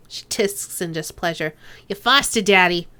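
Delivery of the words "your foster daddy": put-on slipping into Duncan's accent. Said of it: "Why am I picking up Duncan's accent".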